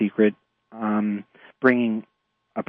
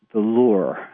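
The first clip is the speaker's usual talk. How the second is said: New York accent. Real, not acted. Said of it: "my New York accent came out there".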